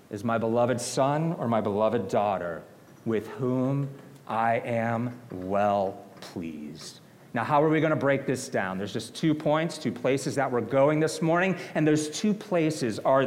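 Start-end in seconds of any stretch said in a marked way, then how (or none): 0.1-7.0 lightly voiced God speaking, slow at the end; a hint of a solemn heavenly voice, stretching out the last words. God to his Son, lightly voiced and slow. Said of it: "a voice from heaven said".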